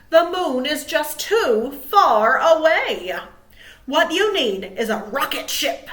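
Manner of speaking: Little Bird. Acted. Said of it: "said Little Bird".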